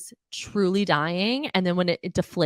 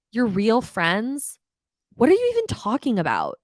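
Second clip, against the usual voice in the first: incredulous echo; 4 semitones higher than usual. Real, not acted. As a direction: drag it out in disbelief.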